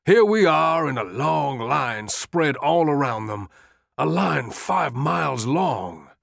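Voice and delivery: rising, insistent appeal; urgent pleading. Acted. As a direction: press the general harder and harder. Longstreet pleading urgently with Lee.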